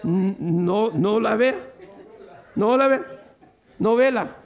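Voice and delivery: laughing mock plea to not watch it; mock warning. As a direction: playfully warn them off the soap opera. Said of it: "Le están diciendo".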